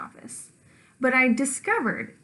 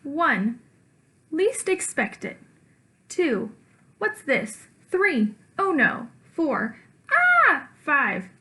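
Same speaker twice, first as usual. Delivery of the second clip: rising dread; 4 semitones higher, 3 dB louder, much slower than usual. Acted. Counting up to the shot.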